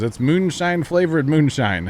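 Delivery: slow, loud, high pitched salesman; moonshine guy voice. Retold or imitated. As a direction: announce it like a proud distiller. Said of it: "he goes".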